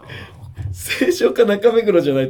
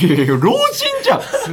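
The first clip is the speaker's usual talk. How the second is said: laughing; 3 dB louder than usual. Real, not acted. Teasing friend as an old man.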